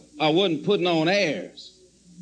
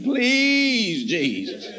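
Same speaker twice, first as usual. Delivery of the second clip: desperate pleading prayer; 3 semitones higher, much slower than usual. Retold or imitated. Retelling his prayer, a man begging Jesus for protection. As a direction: beg Jesus like your heart is about to break. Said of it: "I prayed one of them kind of prayers".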